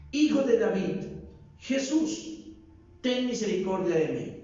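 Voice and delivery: mock shout. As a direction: call out to be heard. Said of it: "lo que grita es".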